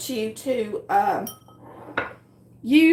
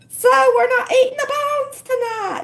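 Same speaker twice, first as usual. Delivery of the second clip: laughing; 12 semitones higher, 5 dB louder than usual. Real, not acted. Laughing after husband's flat no.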